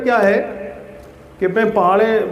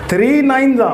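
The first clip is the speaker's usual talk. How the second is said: calling out; 7 semitones higher, 4 dB louder than usual. Shown as a demonstration. Teacher calling tables to class.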